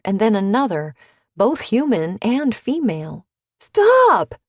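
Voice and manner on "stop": a high, loud cry of "Stop!"; yelled. A narrator's reading. Gabby yelling at an attacker, loud high shout. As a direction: scream it out in struggle. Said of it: "Gabby yelled".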